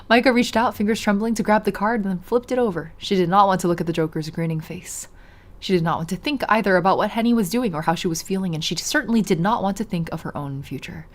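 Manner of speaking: measured read-aloud storytelling; story narration. A narrator's reading. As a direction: narrate the scene evenly.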